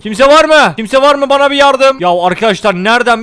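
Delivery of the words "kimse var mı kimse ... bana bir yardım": raised, louder call into the distance; high, projected plea for help. Pretend. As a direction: call out to see if anyone is there. Calling out for help, lost.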